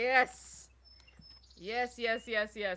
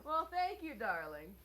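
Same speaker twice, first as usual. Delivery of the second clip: put-on southern accent; 8 dB quieter, slower than usual. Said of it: "you got the southern accent going on".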